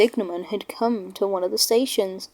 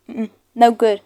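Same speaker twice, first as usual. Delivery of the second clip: louder, brisk official; brisk signalman; 5 dB louder than usual. Acted. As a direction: order the engine on its way. Signalman refuses the siding.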